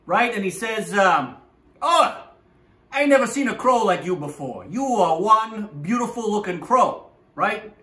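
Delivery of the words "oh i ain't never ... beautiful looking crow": higher-pitched gushing flattery; buttering up. Acted. Fox flattering the crow for its cheese, gushing. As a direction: gush admiringly to butter up the listener. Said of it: "tries to butter you up".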